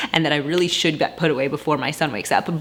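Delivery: talking through a laugh; chuckling while she admits it. Real, not acted. Laughing about laundry.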